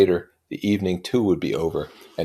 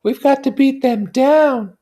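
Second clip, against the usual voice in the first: whispered; 10 dB louder, slower than usual. A narrator's reading. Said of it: "whispered Daisy".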